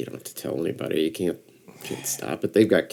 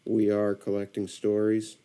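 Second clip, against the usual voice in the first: measured, even announcer delivery; radio voice. Shown as a demonstration. Podcaster trying out a radio voice for the show, radio voice. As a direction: read the show name like a radio host. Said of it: "develop a voice like this".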